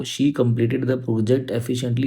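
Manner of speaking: slow, careful corrected sentence; teacher reading the correction slowly. Shown as a demonstration. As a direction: read the fix word by word. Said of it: "efficient आपका यहाँ पे नहीं आएगा".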